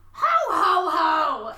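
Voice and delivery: high, loud cackling ho ho ho; eerie high laugh. A narrator's reading. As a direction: cackle it like a hyena. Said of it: "he's got a high-pitched, eerie voice like a hyena".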